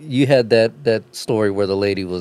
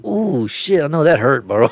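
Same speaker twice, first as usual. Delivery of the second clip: mock wincing reaction; 3 semitones higher, slower than usual. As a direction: wince aloud for the other guy, hammed up. Mimics man covering mouth, wincing reaction.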